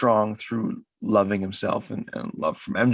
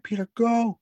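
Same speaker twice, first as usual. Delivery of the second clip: mock Happy; 12 semitones higher than usual. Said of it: "he shows up, like".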